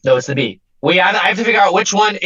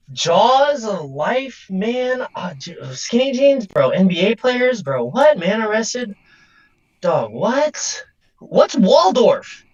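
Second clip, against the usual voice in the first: baffled; 3 semitones higher, slower than usual. Real, not acted. Baffled reading of headlines.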